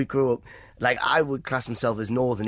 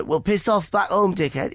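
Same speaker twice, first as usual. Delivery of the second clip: higher, slower jeer from the crowd; mock heckler; 8 semitones higher, slower than usual. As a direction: lightly act out a dismissive heckle.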